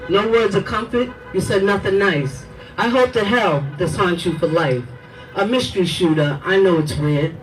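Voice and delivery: poem recitation. Acted. Mother reads poem to police, grieving recitation. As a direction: recite it like a lament.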